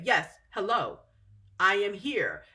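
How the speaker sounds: flat robotic answer; lightly imitated robot voice. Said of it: "And they'll talk like that".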